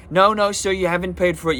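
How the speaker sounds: high, loud no no sir; mocking the cashier. Telling viewers, cashier blocks his bag in a high loud voice. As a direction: imitate a shrill-sounding pushy cashier. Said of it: "And she's like".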